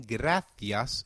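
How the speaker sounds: gracias with a th sound for the c; gracias, Castilian th; European Spanish. Shown as a demonstration. Teacher contrasts Europe, gracias with th. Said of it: "in Europe".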